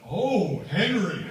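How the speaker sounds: loud, high mock-ecstatic Oh Henry; hammed-up cry of pleasure, pitch swooping up. Comic ecstatic cry, product name.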